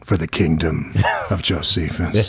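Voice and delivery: slow, drawn-out ring announcer challenge; wrestling promo. Acted. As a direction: call her out like a wrestler cutting a promo. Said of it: "cut a promo right now directed at her".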